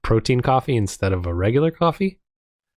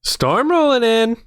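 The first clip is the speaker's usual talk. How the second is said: ominous announcer; 12 semitones higher, slower than usual. Pretend. Dramatic echo of storm.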